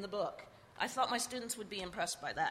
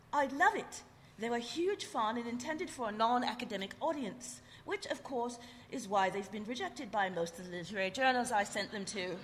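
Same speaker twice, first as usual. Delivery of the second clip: put-on British accent. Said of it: "I'm trying to do her, her British accent".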